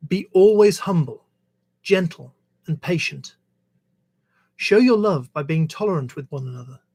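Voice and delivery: measured reading aloud of a verse; scripture reading. Acted. Reader sharing Jesus's words from the Bible, measured scripture reading. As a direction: read it out in phrases, pausing between them.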